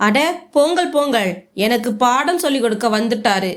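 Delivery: mildly arrogant brush-off; a touch of scornful dismissal. Acted. Brother-in-law waving off the unpaid worker, mildly arrogant. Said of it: "திமிராக பதிலளித்தான்".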